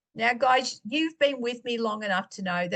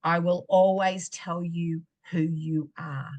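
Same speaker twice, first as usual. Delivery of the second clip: slow tender reassurance; 4 semitones lower than usual. Retold or imitated. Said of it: "God spoke to me very clearly".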